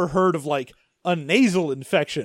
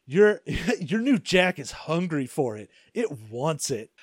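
mock sultry voice; 2 semitones lower than usual. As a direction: purr it like a hammed-up seducer. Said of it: "they're like".

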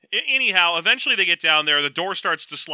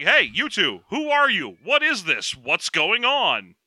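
alarmed dock workers; 4 semitones higher, slower than usual. Retold or imitated. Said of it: "start running over and be like".

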